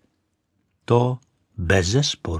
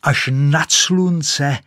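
rising boast; 6 semitones higher, 4 dB louder than usual. Acted. Rocket boasting as it ignites.

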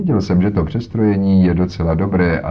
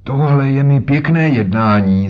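put-on louder, higher outraged old man; indignant old man's cry; 6 semitones higher, 5 dB louder than usual. Old man trapped by the detectives, loud indignant outcry. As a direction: cry out in offended indignation, banging the stick. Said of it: "zvolal a třískl holí".

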